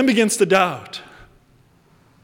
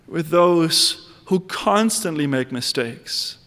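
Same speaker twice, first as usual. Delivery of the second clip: prayer. Acted. Preacher breaks into prayer.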